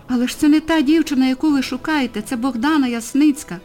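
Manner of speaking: put-on loud, high protest from a panicked girl; frightened shout. Ustyna shouts at the policeman defending her friend, loud and high. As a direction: cry out to save her friend. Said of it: "закричала Устина".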